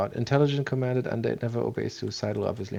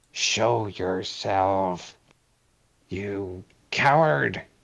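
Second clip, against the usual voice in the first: growled, growling delivery; 3 semitones lower than usual. In a tabletop game, the game master voices Geyer growling at Emerald. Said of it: "and he he growls".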